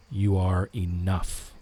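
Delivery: slow, landing firmly on ENOUGH; stress on ENOUGH. Shown as a demonstration. Streamer showing a viewer third-word emphasis, stress on ENOUGH. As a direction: save the weight for the last word, ENOUGH. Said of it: "Put the emphasis on the third word".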